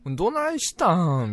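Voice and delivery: lightly acted Kansai woman, drawn out; Kansai dialect. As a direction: coo it like an imitated Kansai seductress. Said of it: "関西弁の知女はもうほんとテンション上がっちゃう".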